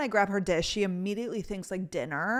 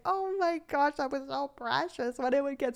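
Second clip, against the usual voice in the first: put-on cooing baby talk; 5 semitones higher than usual. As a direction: coo over a cute pet. Cooing over dog's lip.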